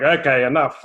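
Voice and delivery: firm fatherly call for order; patriarch voice. Retold or imitated. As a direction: put your foot down like the head of the house. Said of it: "just bringing out that patriarch voice".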